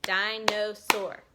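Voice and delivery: loud, slow "Dinosaur" in three beats; "Dinosaur" broken evenly into three chunks; split into syllables. Shown as a demonstration. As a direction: punch di, no, saur in "Dinosaur". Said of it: "That's three".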